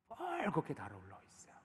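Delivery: hushed repeat. Shown as a demonstration. Preacher echoing David's flushed face to the congregation, hushed. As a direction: drop right down in volume. Same words repeated softly after emphasis.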